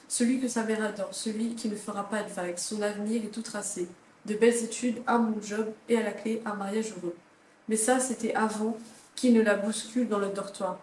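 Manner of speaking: reading a book summary aloud, a touch dramatic; lightly dramatic book-blurb read. Acted. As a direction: read the back cover like a teaser. Reads the back-cover blurb aloud.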